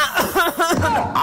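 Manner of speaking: sudden cough cutting off speech; coughing fit. Acted. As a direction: break into repeated coughing. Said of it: "बच्चा खांस क्यों रहे हैं". (अचानक खाँसी का दौरा)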